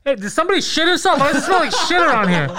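high mock voice of a clueless guy; imitating a guy. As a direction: pitch it way up, playing the dumb guy sniffing. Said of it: "He's like".

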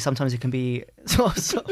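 giggles. Real, not acted. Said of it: "Got the giggles there".

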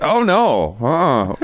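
high, dismayed "oh no"; alarmed studio crew. Retold or imitated. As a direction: react like horrified engineers. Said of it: "they were just like".

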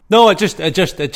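speaking in a big hall echo; echoey room. Real, not acted. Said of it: "Mate, you sound really echoey".

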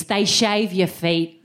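They shave your feet said slowly through a laugh; slow, laughing reveal. Real, not acted. Comic confessing to the audience, slow and laughing. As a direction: drag it out, amused and appalled. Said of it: "how do I say this?".

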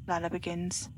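plain reading voice

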